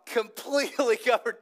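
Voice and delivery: laughing in the middle of the phrase; amused, breaking into a laugh. Real, not acted. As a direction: laugh through the word covered. Repeats the finding with a laugh.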